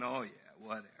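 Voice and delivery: low, dismissive mourner; unimpressed grumbling. Acted. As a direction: play a put-out mourner, dropping the pitch. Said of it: "the other group is going".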